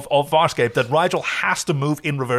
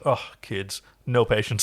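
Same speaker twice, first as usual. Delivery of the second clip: weary eye-roll; 3 semitones lower than usual. Retold or imitated. Rigel scoffing at the young crew, a low weary mutter. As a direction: scoff at the impatient kids. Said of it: "Rigel's just sitting here just rolling his eyes".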